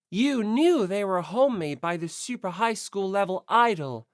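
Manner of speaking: lightly voiced detective pinning the culprit; calm accusation. Kirigiri accusing Yamada, a hint of cool interrogation. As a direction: press each point home.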